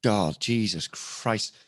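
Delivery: slow, drawn-out sigh of despair; mock weary exasperation; exasperated camera crew. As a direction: lose patience wearily, stretching the words. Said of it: "you can see the camera crew going".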